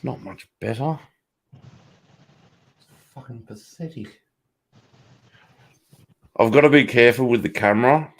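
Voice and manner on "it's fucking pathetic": whispered scorn. Real, not acted. Muttered aside.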